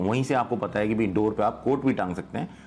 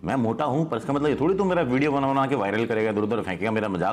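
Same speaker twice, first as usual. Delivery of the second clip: mock angry fat man; 3 semitones higher than usual.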